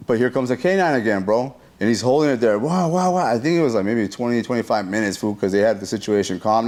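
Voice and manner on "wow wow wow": pitched-up quick woofs; storyteller's quick bark noises; imitated dog barking. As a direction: mimic a held-back police dog.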